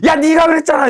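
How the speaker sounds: high, loud mock-furious shout; acted angry outburst. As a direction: yell an accusation as an acting student would. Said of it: "화를 내면서".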